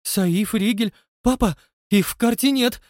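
high, loud frantic cry; frantic panic. A narrator's reading. Son telling father the stones are gone, frantic. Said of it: "Замотал он бешено головой".

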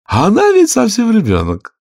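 mildly timid, rising into a high plea. A narrator's reading. King timidly pleads with the queen for the child. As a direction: start gently, end pleading high. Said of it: "робко произнёс".

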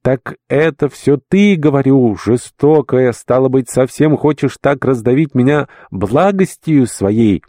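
high, slow, pleading outcry; frantic reproach. A narrator's reading. Old servant cries out to his mistress in anguish. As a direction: cry out, overwhelmed by kindness. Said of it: "закричал я в безумии".

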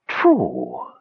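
high, hissing ghost voice; menacing hiss. Acted. Dead wizard agrees with Tanis, a high menacing hiss. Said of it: "the menacing voice sibilated".

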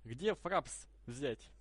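very slow, spelled out for a deaf ear; to someone hard of hearing. Real, not acted. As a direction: drag every word out slowly. Repeating to someone who cannot hear.

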